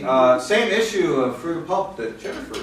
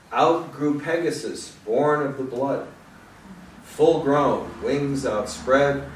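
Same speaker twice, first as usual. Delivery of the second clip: slow, measured poetry reading; poem reading; slower than usual. Acted. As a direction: read it like an old myth. Reads the Pegasus poem.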